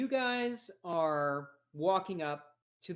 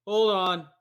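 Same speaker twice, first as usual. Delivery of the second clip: louder opening call, then official; cop at morgue; 4 dB louder than usual. Acted. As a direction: halt them like a cop on guard. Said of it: "no, that's Bickle's voice".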